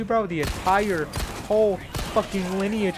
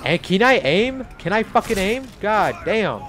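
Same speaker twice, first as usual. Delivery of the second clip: frustrated outburst; 5 semitones higher, 6 dB louder than usual. Real, not acted. Struggling to aim in game.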